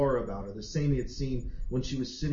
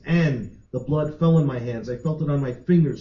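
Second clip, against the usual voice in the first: voice rising; 3 semitones higher, 8 dB louder than usual. A narrator's reading. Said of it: "her voice rising with every moment".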